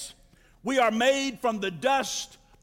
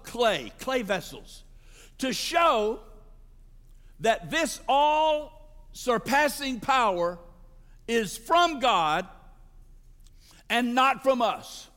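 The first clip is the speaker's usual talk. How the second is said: slow, weighty reading with pauses; sermon reading, building to a cry; dramatic scripture reading. Acted. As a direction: lay each phrase down like a verdict. Reads scripture with emphasis.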